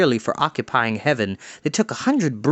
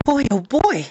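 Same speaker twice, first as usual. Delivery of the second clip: much higher, thrilled exclaim; excited; 11 semitones higher than usual. A narrator's reading. Henry Hank proud in his costume, high excited exclaim. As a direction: crow with delight.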